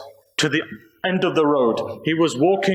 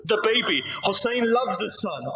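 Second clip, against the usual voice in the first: low mournful recitation; 2 semitones lower than usual. Real, not acted. Preacher reciting the Karbala tragedy to mourners, low and mournful. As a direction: draw the mourners in gently, low and sorrowful. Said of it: "If I can recite".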